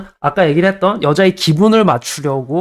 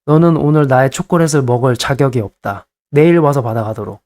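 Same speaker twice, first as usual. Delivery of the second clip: mock solemn decree; 3 semitones lower than usual. Shown as a demonstration. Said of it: "너무 막 화내지 마시고 이렇게".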